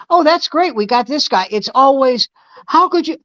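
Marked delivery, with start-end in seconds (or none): 0.1-1.5 high, chirpy imitation of a pleased fan; high mock cheer from a pleased draft fan; mock happy fan. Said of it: "You never hear someone saying". 2.7-3.2 mock outraged fan. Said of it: "go insane with anger".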